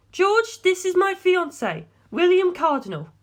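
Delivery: put-on high, pleading young woman's voice; lifted female voice, anxious and imploring. A narrator's reading. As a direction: voice a distraught heiress begging for help. Darlington introduces.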